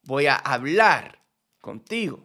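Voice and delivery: deliberate practice read with "hablar" emphasized; stress on hablar. Shown as a demonstration. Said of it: "I'm gonna emphasize the word".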